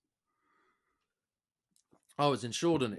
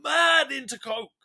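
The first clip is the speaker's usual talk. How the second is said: excited; 8 semitones higher, 5 dB louder than usual. Real, not acted. Excited bragging about rich girlfriend.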